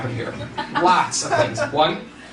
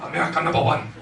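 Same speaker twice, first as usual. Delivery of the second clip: lightly put-on Bush accent; a hint of a comic Bush accent; 2 semitones lower, faster than usual. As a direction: do a rough Bush accent at normal pitch. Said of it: "I made Bush that accent".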